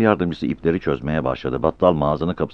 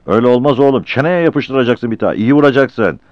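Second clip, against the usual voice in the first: excited; 8 semitones higher, 6 dB louder than usual. Acted. Driver's mate urging a punch.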